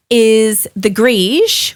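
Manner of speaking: Gris drawn out slowly, stressed; slow emphasis on Gris. Shown as a demonstration. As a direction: lean slowly on the word Gris. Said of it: "the fun tip for Pinot Gris today".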